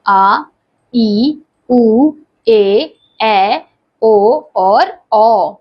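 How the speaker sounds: each vowel आ, ई, उ, ए, ऐ, ओ, औ held long and clear; drawn-out long vowels. Shown as a demonstration. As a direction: stretch every दीर्घ vowel to double length. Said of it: "ह्रस्व स्वर से दुगना समय लगता है". (दीर्घ स्वरों को खींचकर बोलें)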